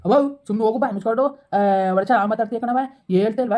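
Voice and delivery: loud, fed-up yell to cut her off; angry yell. Acted. Son shouting at scolding mother to shut up, angry yell. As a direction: snap back at her loudly.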